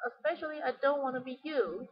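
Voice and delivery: emphasize "you" to show dislike; "you" stressed at the end. Shown as a demonstration. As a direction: lean on the final "you". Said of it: "she emphasized you".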